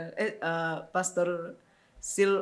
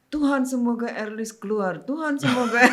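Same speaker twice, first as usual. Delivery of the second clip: tearful prayer; 4 semitones higher, 5 dB louder than usual. Retold or imitated. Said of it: "dia nangis-nangis, tiap hari dia berdoa".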